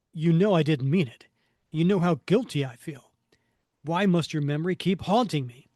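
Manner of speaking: loud, fast defensive plea; theatrical anguish in the speaker's own pitch; guilt-ridden hero. Acted. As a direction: plead with the ghost, urgently. Voices guilt-ridden Cap pleading.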